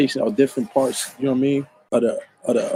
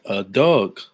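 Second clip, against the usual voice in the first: "Doug" for dog, Baltimore-style; Baltimore accent; 6 semitones lower than usual. Shown as a demonstration. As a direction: say "Doug" like a West Baltimore local. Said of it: "That's how they say it".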